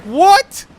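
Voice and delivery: high shocked yelp of disbelief; a friend's jaw dropping at the news; shocked what. Retold or imitated. Friend reacting to a Mega Man opinion, loud shocked what. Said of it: "And he's like".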